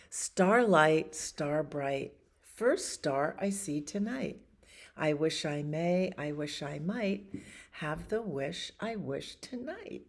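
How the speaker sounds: lilting, wishful recitation; host reciting the star rhyme for children; nursery rhyme recital. Acted. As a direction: say it like a bedtime wish.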